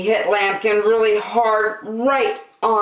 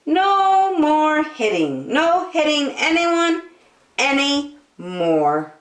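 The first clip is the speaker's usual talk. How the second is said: high, slow, loud hamster promise; little hamster voice; 11 semitones higher, 4 dB louder, slower than usual. A narrator's reading. Little hamster promises everyone, high and slow. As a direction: promise it slowly in a tiny high voice. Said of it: "promised little hamster".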